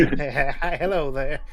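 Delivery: hammed-up cowboy drawl; Texas accent. Shown as a demonstration. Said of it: "people in Texas talk like this".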